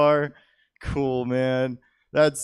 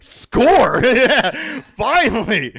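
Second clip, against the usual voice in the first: excited cheer; 8 semitones higher, 6 dB louder, much slower than usual. Retold or imitated. Cheering over cousin's luck.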